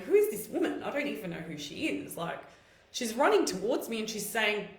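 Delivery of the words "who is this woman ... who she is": dumbfounded. Retold or imitated. Recalling a stranger running towards her, mildly acted dumbfounded. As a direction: jump up in pitch, baffled by a stranger. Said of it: "dumbfounded and going".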